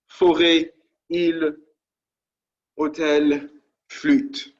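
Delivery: "Forêt, île, hôtel, flûte" in French, fo-RAY, eel, oh-TEL, FLOOT; teacher models each French word aloud; French pronunciation. Shown as a demonstration. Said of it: "Forêt is forest".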